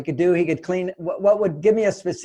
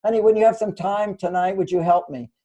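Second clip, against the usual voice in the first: sweet gentle ask; 2 semitones higher than usual. Shown as a demonstration. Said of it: "That's how you introduce it".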